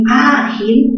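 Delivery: "ágil" with a long, stretched Á; stress on Á. Shown as a demonstration. Teacher shows pupils where the accent falls, stressed Á. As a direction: lean slowly on the A of "ágil". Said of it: "mayor fuerza en A".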